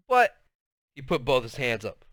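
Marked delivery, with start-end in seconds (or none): 0.1-0.4 protesting outburst. Acted. Girl protesting, cut off.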